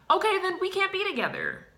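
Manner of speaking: shrieking overdramatic breakup line; hurt ultimatum. Retold or imitated. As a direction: declare it like a melodrama breakup. Dramatic breakup in quarrel.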